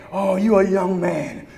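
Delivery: put-on tempting voice in the young pastor's ear; whispering tempter. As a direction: murmur it like a sly voice in his ear. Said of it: "got whispers in his ear saying".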